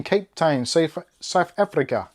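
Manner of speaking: clumsy imitation South African accent; amateur stab at South African vowels; attempted South African accent. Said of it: "I'm not very good at accents".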